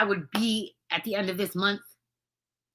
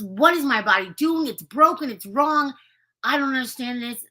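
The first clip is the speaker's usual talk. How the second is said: higher, louder, a touch of panicked disbelief; distressed confusion; 5 semitones higher, 4 dB louder than usual. Shown as a demonstration. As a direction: sound thrown by the news, half-panicked. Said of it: "What I believe is".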